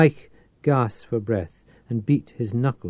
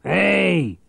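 higher, louder calling out, a touch forlorn; plaintive call; 6 semitones higher, 5 dB louder than usual. Acted. Reich calls out plaintively to fake innocence. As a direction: call out as if lost and harmless. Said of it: "he called plaintively".

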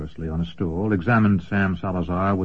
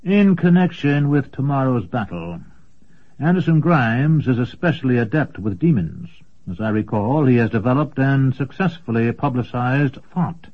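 a touch higher, measured schemer; scheming wizard; 3 semitones higher than usual. Acted. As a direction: plan the battle coolly. Commendore discusses battle plans.

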